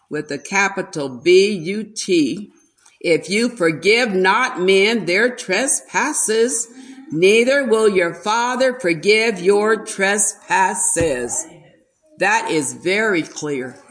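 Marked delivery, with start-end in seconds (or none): 1.1-11.4 slow, weighty scripture reading; read with emphasis. Shown as a demonstration. Preacher reading Matthew slowly with emphasis to the church. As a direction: lean on each word of the verse. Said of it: "I tried to read it with emphasis".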